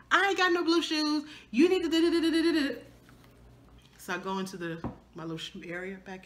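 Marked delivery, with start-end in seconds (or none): 0.1-2.7 higher, mock shout at her husband; retold shouting. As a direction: shout him down, half playing. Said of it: "I was shouting down my husband".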